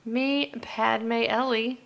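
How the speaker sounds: slow breathy whisper. Acted. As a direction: whisper your name slowly. Sign-off with character names.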